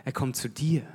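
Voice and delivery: „Er kommt zu dir“ whispered, rising on „dir“; stressed whisper. Shown as a demonstration. Preacher demos a whispered emphasis to the congregation. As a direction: breathe it softly, lift „dir“. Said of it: "Wo war die Betonung?".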